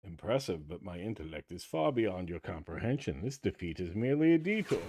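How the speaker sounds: lightly voiced smug cartoon villain; cartoon villain speech. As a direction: read it like a gloating supervillain. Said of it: "Cobra Commander doing the classic Saturday morning cartoon villain speech".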